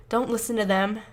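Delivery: firm and steady. Acted. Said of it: "Josh says firmly".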